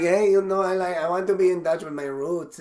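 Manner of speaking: lightly put-on Hispanic accent; a hint of imitation Hispanic; mock Hispanic accent. Comic imitating newly Hispanic friend, slight Hispanic accent. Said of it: "like, Hispanic. So suddenly".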